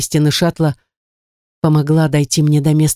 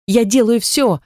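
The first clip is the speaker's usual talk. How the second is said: high, flustered protest; nervous exclamation; 6 semitones higher than usual. A narrator's reading. Knopka answers orders under pursuit, nervously exclaiming. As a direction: protest nervously, pitch raised. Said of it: "воскликнула Кнопка нервно".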